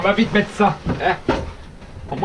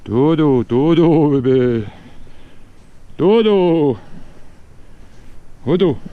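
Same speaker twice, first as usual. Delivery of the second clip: drawn-out lullaby coo; whispering over a crib; 3 dB louder, much slower than usual. Real, not acted. Lulling the dog like a baby.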